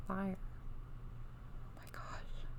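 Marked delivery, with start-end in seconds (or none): 1.7-2.5 soft, awed whisper. Real, not acted. Reader awed by the dragon card, whispering. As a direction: breathe it out in wonder. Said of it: "when I whisper".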